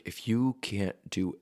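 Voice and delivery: a hint of a stern teacher, slowing down; half-whispered, grave teacher's advice; stern acting teacher. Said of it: "my acting teacher forever ago just be like".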